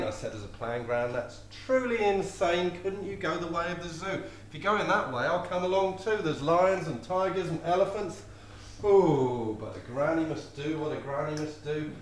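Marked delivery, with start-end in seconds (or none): 0.8-8.2 put-on high, louder pleading boy; pleading grandson. Grandson begging granny to take him along, high and loud.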